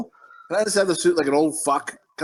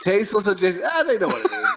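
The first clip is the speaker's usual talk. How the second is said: laughing; 4 semitones higher than usual. Real, not acted. Laughs at wrong show name.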